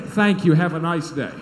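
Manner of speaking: loud sign-off, pitch dropping; curt dismissal. Retold or imitated. Pastor dismissing a complaining council member, curt dismissal. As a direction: end the row loudly, coming down in pitch.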